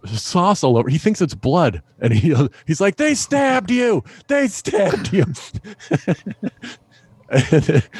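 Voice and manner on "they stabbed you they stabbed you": high, slow alarmed cry; mock panic from the getaway driver; panicked friend. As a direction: sound horrified at all the blood. Friend panics, thinks it's blood.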